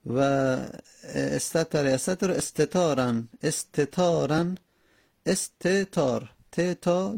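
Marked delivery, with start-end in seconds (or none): 5.3-7.2 استتار slowly broken as "es-te-tar"; slow syllable-by-syllable استتار, picking out both t sounds; syllables picked apart. Shown as a demonstration. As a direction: separate "te" and "ta" in ت، تا. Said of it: "دو تا تا".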